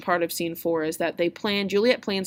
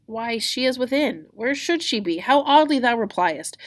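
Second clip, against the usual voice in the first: higher, baffled protest; acted indignant disbelief; exasperated Juliet; 6 semitones higher, 6 dB louder than usual. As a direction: answer the silly question with rising exasperation. Juliet baffled by nurse's question.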